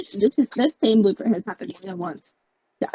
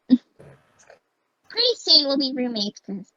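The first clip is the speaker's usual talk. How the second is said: drawn out, every word stretched; very slow; 3 semitones higher, much slower than usual. Acted. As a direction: slowly savour each word. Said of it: "Me, listen here".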